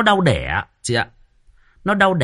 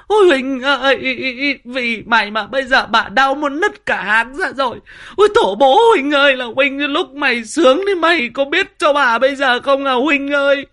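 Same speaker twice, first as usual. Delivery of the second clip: much higher and louder wailing abuse; daughter-in-law in labour cursing her husband Huynh, wailing; screaming curses in labour; 12 semitones higher, 7 dB louder than usual. Retold or imitated. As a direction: howl it at him as if the pain is his fault.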